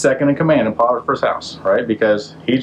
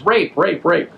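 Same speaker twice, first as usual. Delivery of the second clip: mock yell; 7 semitones higher, slower than usual. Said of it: "So she yells".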